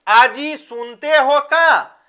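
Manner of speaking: slow, drawn-out call to a husband; lightly acted wife calling out; पत्नी की पुकार. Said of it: "हम लोग ज्यादातर ये वर्ड का यूज़ करते हैं". (पति को खींचकर पुकारती पत्नी)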